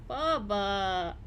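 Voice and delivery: loud call to the cat. Real, not acted. Calling her cat in the other room, loud. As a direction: call him from the next room.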